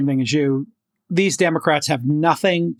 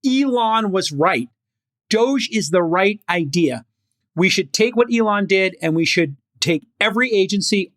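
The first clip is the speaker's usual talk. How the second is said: slightly raised, lightly acted campaign pitch; hypothetical politician's speech; 3 semitones higher than usual. Podcast host voicing governors embracing spending cuts, lightly acted stump speech. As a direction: deliver it like a candidate declaring a platform. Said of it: "if they came out and said".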